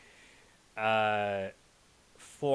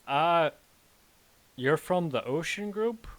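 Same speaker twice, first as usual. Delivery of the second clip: raised, questioning guard; gruff guard voice; 6 semitones higher, 7 dB louder than usual. Acted. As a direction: challenge the visitor loudly. GM voicing guard.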